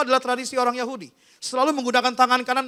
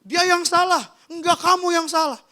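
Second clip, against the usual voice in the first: mock yell; 5 semitones higher than usual. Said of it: "dia teriak-teriak begini".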